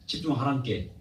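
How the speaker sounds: Jeolla accent, slightly drawn out; Jeolla dialect. Shown as a demonstration. Preacher telling the congregation to focus, Jeolla accent. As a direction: stretch it lightly in Jeolla dialect. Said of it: "전라도 말".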